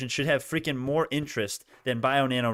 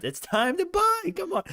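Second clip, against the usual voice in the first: squeaky high-pitched buy call; stretched, high, hyped-up buy cry; excited squeal; slower than usual. Real, not acted. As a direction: squeal it like you can't contain yourself. Repeats buy call, squealed take.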